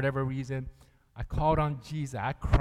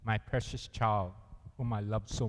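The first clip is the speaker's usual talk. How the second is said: tender reassurance; 6 semitones lower than usual. Retold or imitated. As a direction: say it gently, like to a child. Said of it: "he's gonna let you know".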